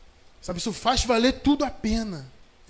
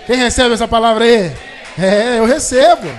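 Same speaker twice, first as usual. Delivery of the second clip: loud preaching call to the congregation; fervent shouting; 3 semitones higher, 13 dB louder than usual. Real, not acted. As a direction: shout it out, stirring the crowd.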